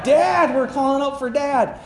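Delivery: high, loud mock cry for dad; reliving the kids' panicked call. Kids crying out in storm.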